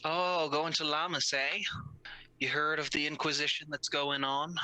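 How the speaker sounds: boatman voice. Acted. Boatman speaking in character.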